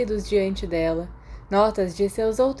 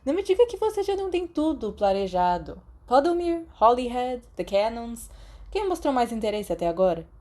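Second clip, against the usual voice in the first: higher, bantering schoolboy prodding a friend; teasing Sirius voice; 4 semitones higher than usual. Acted. Sirius teases James about Quidditch offers, higher and bantering. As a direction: needle him playfully about the teams.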